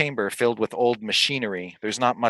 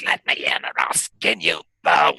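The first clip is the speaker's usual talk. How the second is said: hissed threat; 8 semitones lower than usual. Acted. Hag threat, voice drops.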